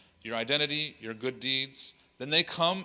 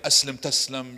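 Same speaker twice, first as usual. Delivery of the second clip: mock-forceful demand, louder; imitated aggressive proselytizer; 7 dB louder than usual. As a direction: push it out like a pushy preacher. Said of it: "the aggressive, the ones like".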